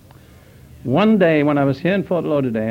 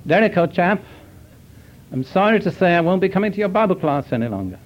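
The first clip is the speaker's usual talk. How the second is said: higher-pitched, very British chap; very British accent; 4 semitones higher than usual. Retold or imitated. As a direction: imitate a friend in a very British accent. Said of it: "in his very British accent".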